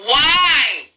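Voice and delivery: high, strained why in disbelief; mock despairing inner voice; inner exasperation. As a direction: plead in disbelief at the mess. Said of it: "I'm losing it in my mind 'cause it's like".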